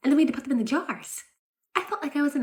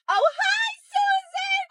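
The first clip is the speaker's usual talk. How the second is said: very high, gushing hello; squealed social greeting; fake-cheery greeting; 4 dB louder, much slower than usual. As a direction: sing it out in sudden overdone delight. Sudden cheery greeting to other parent.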